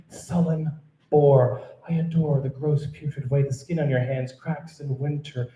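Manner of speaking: emphatic comic recital, leaning on each insult; spoken-word love poem. Acted. Poet tells Jeff she loves his flaws, spoken-word love poem. Resumes the poem after a slip.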